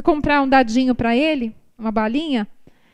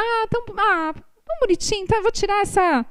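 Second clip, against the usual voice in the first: mock cooing over a cute child; doting parent; 4 semitones higher than usual. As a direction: coo it like a charmed mother. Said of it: "Eu falo".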